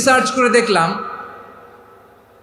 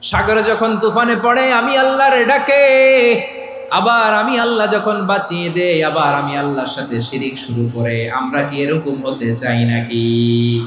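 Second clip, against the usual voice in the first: melodic preaching. Real, not acted. Preacher asking the congregation about turning from Allah, singsong preaching.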